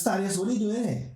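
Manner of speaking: imitated Irish cop, high and loud; Irish accent. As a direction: put on a loud Irish brogue, surprised to see him. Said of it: "You know, in the Irish accent".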